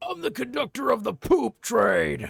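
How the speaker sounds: rough, raw, shrieking, shrill top-of-lungs scream. A character who was warned not to scream the word poop, screaming at top of lungs. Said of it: "scream the word poop at the top of your lungs".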